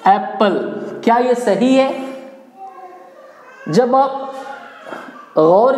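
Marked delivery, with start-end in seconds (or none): 0.1-0.5 एप्पल with short "e", as "eppal"; wrong pronunciation. Shown as a demonstration. Teacher asking how learners read एप्पल, wrong pronunciation "eppal". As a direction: say एप्पल the common mistaken way, "EP-pal". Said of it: "क्या पढ़ते हैं इसको?".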